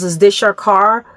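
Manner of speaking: mildly nasty, questioning; retold nasty question. Officer at the window asking about her car, mildly nasty. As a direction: imitate a curt, nasty officer. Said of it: "Really nasty".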